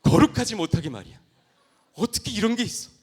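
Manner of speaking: high, loud mock outrage; hammed-up shocked protest, loud and high; acted indignation. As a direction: rant as if scandalized. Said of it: "표정이 안 좋아서 불쾌해서".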